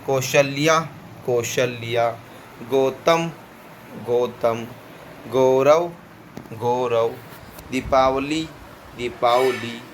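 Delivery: each word twice, rising then falling; recitation drill. Acted. Teacher reciting exam words to students, rise then fall. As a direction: call a word, then confirm it.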